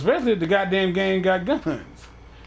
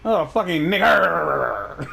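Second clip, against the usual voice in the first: drawn-out mock imitation; much slower than usual. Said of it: "fat, rich dude shaking his jowls".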